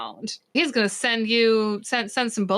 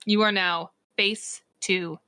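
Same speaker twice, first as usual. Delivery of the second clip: measured, deliberate scene-setting; game master narration. A narrator's reading. Game master narrating Varric's attack to players, dramatic narration. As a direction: announce each move with dramatic weight.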